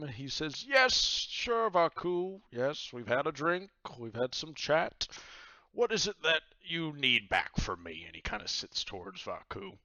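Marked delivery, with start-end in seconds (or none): 0.6-8.0 high, loud jovial pirate captain. Acted. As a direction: boom it out like a cheery pirate host. Captain Myers voice.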